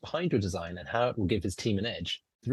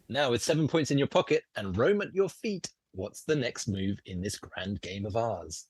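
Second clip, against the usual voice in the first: lightly theatrical scene-setting, slowing to the question; game master narration. Acted. Game master asks player's next move, grandly. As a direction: pose the challenge grandly.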